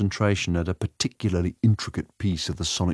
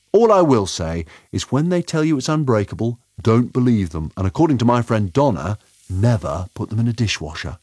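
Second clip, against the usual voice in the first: higher, louder eager advice; enthusiastic Doctor; 5 semitones higher, 4 dB louder than usual. Acted. Doctor warning Layla about compact discs, enthusiastic. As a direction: warn them with gleeful energy.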